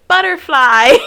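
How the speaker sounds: put-on high, loud kid's shout through laughter; mock angry German scream. Cousin imitating kids' game, mock angry shouting. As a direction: bark it like an angry little German child. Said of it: "they're just screaming little German words".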